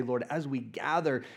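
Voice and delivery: ordinary talk, nothing marked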